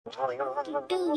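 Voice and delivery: slow, low, soft threat on the name; low menacing call. Acted. Wife threatens her husband, low and slow menace. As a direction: drag his name out like a warning.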